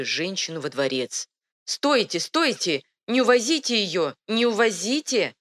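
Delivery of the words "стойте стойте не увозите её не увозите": raised, higher call; shouting. A narrator's reading. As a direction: cry out to stop them. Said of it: "закричала принцесса".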